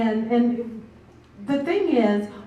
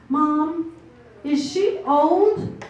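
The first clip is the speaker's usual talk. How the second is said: higher, slower questioning voice; young son asking; 5 semitones higher, much slower than usual. Retold or imitated. Son asks mom in the grocery store, lightly voiced higher questioning. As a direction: lightly imitate your son's innocent question. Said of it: "I'll never forget my son. He says".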